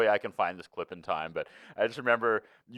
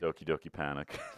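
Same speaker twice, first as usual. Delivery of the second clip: very low, flat, dead-level droning monotone; 7 semitones lower, 7 dB quieter than usual. Mimicking how someone said a game title, John Foster flat monotone. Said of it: "his like dial tone cadence".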